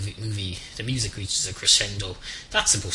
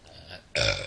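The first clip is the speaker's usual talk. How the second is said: short low belch; real burp breaking into the talk; 6 semitones lower than usual. Real, not acted. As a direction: let out a quick burp. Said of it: "excuse me".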